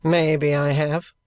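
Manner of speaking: slow, musing trooper; noncommittal, drawn-out reply; pondering. A narrator's reading. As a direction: weigh it up slowly before committing.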